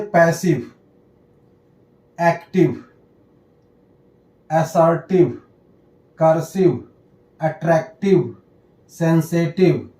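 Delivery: पैसिव, एक्टिव, कर्सिव ending in a clear "iv"; -ive ending demo. Shown as a demonstration. Teacher reading examples of the ई व rule, pronunciation demo. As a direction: read सेंसिटिव and अट्रैक्टिव singly, final i-v-e as "iv". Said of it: "तो आई का sound ई व हो जाता है".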